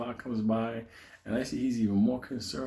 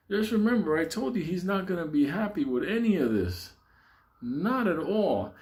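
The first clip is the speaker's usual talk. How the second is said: ominous warning; 5 semitones higher than usual. Retold or imitated. Paulie warns the guys about his friend, ominous warning. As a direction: stretch it out like a solemn caution.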